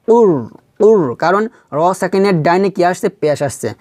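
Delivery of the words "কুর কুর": কুর ending on a thick, held rolled r; heavy r. Shown as a demonstration. Teacher showing the thick ra, কুর with heavy r. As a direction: make the r of কুর full and heavy. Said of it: "মোটো হবে".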